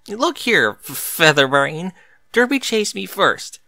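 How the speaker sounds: irritated snap, stumbling on the insult; a sharp retort to the pegasus; snapping. A narrator's reading. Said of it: "Bucky snapped".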